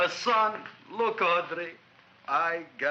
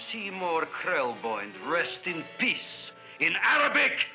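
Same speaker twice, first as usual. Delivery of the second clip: angry climax. Acted. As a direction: spell out the doom, then explode. Furious climax of the doom vision.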